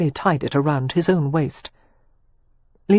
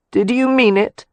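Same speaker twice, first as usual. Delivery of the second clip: Catherine, hurt; 6 semitones higher, 5 dB louder than usual. A narrator's reading. To Leo, whom she overheard, a high hurt accusation. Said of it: "Catherine repeated, unmoving".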